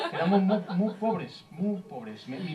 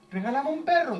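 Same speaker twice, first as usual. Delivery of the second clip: higher, wheedling beg; mock pleading; 7 semitones higher than usual. Partner begs for a dog, mock whiny plea. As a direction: beg with a swooping high tune.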